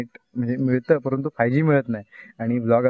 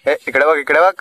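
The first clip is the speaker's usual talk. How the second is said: a raised call with a rising end; calling out to a monkey; 3 semitones higher, 5 dB louder than usual. Real, not acted. Calling to a monkey up in the tree, raised voice.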